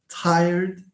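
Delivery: "Tired" drawn out in one beat; one long syllable, ending on a light d. Shown as a demonstration. Teacher correcting the count, "Tired" held as one syllable. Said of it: "tired is one syllable".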